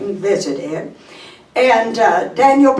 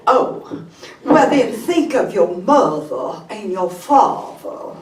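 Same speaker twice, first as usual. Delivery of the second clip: Southern belle trying to reason; Mississippi lady. Acted. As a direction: coax in a Mississippi accent. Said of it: "Story of a lady from Mississippi".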